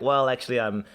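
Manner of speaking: casual imitation Australian accent; Aussie accent. The new boy saying he is leaving, Aussie accent. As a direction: try a rough Aussie accent. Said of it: "you doing that accent".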